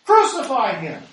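loud, high furious crowd yell; crowd shouting. A narrator's reading. Crowd demands crucifixion from Pilate, furious shout. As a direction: scream for his crucifixion. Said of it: "they shouted".

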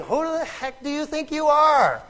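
high, loud scornful demand; mocking challenge. Woman challenging the stranger's claims, loudly mocking. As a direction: throw it at him in loud ridicule. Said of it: "She's making fun of him".

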